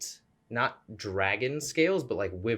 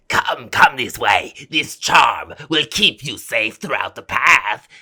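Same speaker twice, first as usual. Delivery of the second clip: loud, slow hawker's call with swooping pitch; older dragonborn woman; 3 semitones higher, 14 dB louder, slower than usual. Acted. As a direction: call out to passers-by as an old dragonborn. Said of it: "small, older Dragonborn women".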